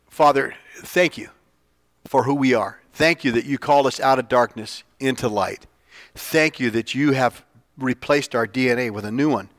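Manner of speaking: earnest spoken prayer to the Father. Real, not acted. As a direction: pray aloud for the congregation. Leads closing prayer.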